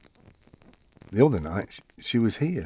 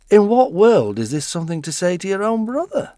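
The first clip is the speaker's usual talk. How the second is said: raised, high indignant protest; indignant retort; 8 semitones higher, 7 dB louder than usual. Retold or imitated. Old man snapping back at his brother. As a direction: throw it back at him, stung.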